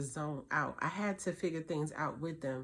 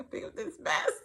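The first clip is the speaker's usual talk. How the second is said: inner whisper; 10 semitones higher, 4 dB louder than usual. Retold or imitated. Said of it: "in my heart, I'm like".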